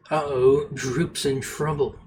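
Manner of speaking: shrieky nasal goblin voice, first try; gross nasal goblin. Acted. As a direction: squeal it like a gross little goblin. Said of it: "the goblin shrieks in a gross, nasally voice".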